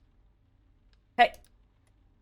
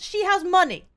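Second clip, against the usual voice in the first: indignant; 9 semitones higher, 4 dB louder than usual. Acted. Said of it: "I'm furious".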